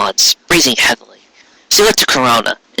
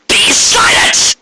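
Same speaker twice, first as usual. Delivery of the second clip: much higher, slow commanding cry; enraged queen's order; furious shout; slower than usual. Acted. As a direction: silence her sister at once. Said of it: "Corona shouted".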